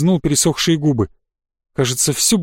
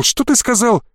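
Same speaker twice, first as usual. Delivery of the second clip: higher, alarmed question; startled; 7 semitones higher than usual. A narrator's reading. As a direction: demand it in shocked disbelief. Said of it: "даже подпрыгнул". (ошарашенно)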